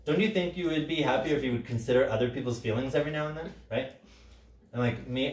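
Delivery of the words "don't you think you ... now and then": clinical condescension. Shown as a demonstration. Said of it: "clinical, heightened language of domination".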